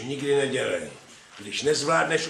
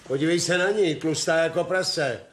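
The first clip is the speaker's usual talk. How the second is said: scornful jeering; 6 semitones higher, 5 dB louder than usual. Acted. Husband mocks the pregnant maid.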